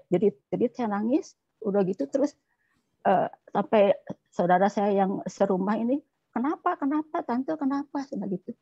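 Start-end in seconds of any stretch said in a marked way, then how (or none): 6.3-8.0 higher-pitched concerned relative, mildly acted; retold worried questioning. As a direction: imitate a relative asking what is wrong. (menirukan saudara bertanya cemas)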